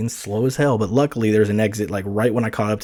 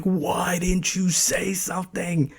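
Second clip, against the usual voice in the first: freaked-out questioning; 8 semitones higher, 5 dB quieter, slower than usual. Retold or imitated. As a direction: act out panicked disbelief, pitched up. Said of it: "I'm freaking out now".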